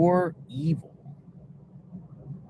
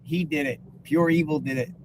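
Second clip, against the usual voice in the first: mock accusers jumping to conclusions; sarcastic accusation. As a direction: point the finger in mock certainty. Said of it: "I'm being sarcastic".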